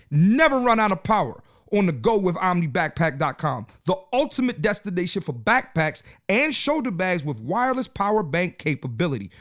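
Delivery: steady, promotional read-aloud delivery; sponsor ad read. Real, not acted. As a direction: read the sponsor copy out to listeners. Reads sponsor copy.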